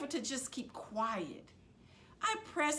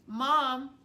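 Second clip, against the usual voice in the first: urgent call; 4 semitones higher, 7 dB louder than usual. Acted. Girl interrupts the fight.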